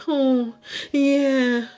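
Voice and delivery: high, breathy-sounding imitation of her flirty talk; mocking a contestant's flirty voice; mock sensual voice. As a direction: parody her sultry voice. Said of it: "She talks too sensually".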